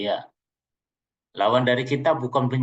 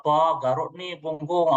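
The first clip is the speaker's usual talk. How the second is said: whiny wife request; 3 semitones higher, slower than usual. Acted. Demanding wife voiced.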